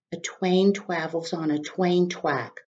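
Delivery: glum, slow w-for-r reply; miserable. Acted. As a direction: say it like a sad, teased kid. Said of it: "Wadney replied miserably".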